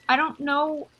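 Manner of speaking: distraught, voice rising and wobbling; tearful pouring out. Acted. Mina to the mother, near tears about her eyes. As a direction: spill it all out, close to tears. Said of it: "she just kinda starts sobbing".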